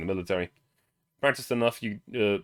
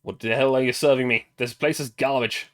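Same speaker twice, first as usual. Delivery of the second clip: put-on angry drunk; 6 dB louder than usual. Drunk man rants at bartender.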